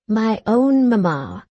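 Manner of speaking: slow, savouring each word; fond, pleased. A narrator's reading. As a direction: linger lovingly on the words. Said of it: "as if pleasing herself with the thought".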